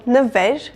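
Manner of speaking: "Նվեր" said nuh-VER, uh between N and V; inserted schwa. Shown as a demonstration. Teacher introducing Նվեր, uh sound splitting the cluster. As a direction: slip an uh into Նվեր after the N. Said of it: "sound in between the consonants".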